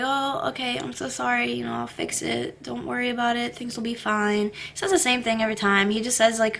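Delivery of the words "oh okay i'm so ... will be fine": quietly imitating husband, much softer; husband's soft brush-off. Husband shrugging off her complaint, soft and quiet. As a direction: mumble his easy reassurance softly. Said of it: "he was like".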